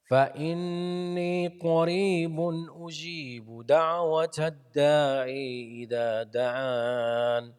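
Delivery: تلاوة مجودة; Quran recitation. Shown as a demonstration. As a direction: chant with long held vowels.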